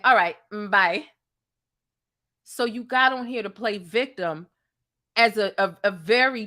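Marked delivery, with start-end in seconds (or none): 0.0-1.1 mock casual goodbye. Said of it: "You ended by saying".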